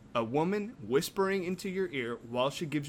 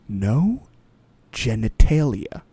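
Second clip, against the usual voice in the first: loud emphatic shout; 14 dB louder, slower than usual. Real, not acted. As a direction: bellow it out. Insists loudly on beer demands.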